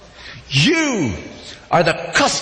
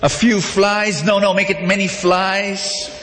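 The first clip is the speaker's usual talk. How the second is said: higher, slow, relishing each gross word; hammed-up odd customer; 4 semitones higher, slower than usual. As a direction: savour the disgusting order like a delicacy. Customer orders disgusting food.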